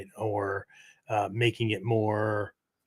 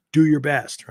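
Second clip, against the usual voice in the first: sports fan yelling, higher and louder; cheering shout; 4 semitones higher, 6 dB louder than usual. Retold or imitated. Crowd cheering on their favorite sports team, shouting. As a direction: cheer your team on from the stands. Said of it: "we might shout that with a, with a sports team".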